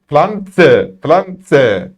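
"Pflanze" with a sharp ts; hissed z. Shown as a demonstration. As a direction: hiss the z in "Pflanze" as tse. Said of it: "Tıslıyorum".

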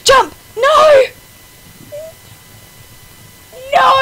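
loud yell. Real, not acted. Jump fails.

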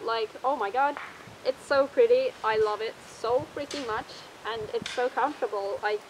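muffled inside mascot head; speaking behind foam mask; through a costume head. Real, not acted. Seen 3: Full costume head worn over face throughout; R frames show it in hand.

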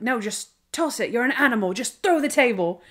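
retold director egging an actor on, rising in pitch; lightly acted urging, building to the last order. Director coaching a hesitant actor, lightly acted urging. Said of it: "And the guy's like".

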